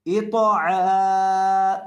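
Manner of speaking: अश्तातन read very slowly with each syllable held; drawn-out reading. Shown as a demonstration. Teacher showing students the whole word read slowly. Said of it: "teacher reads joined syllables".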